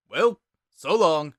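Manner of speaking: easygoing skeleton signing off; Sans voice. Acted. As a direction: drawl out the farewell. Sans voiced in narrated fanfic.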